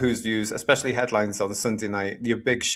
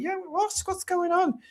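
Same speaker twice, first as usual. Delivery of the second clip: very high, squeaky-pitched confusion; mock bewilderment, pitch shooting up; baffled; slower than usual. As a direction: act out being totally lost. Retold bafflement at unintelligible accent.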